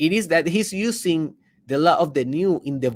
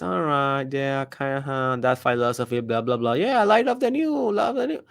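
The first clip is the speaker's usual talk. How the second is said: mocking cynic. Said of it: "don't be that cynic".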